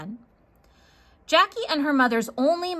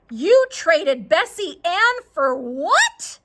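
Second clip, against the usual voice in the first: shocked mother; 5 semitones higher, 5 dB louder, slower than usual. Acted. Mom hears of the trade.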